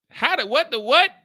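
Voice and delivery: high, incredulous what the what; genuinely thrown by the news; stunned disbelief. Real, not acted. Reacting to the testimony in stunned disbelief.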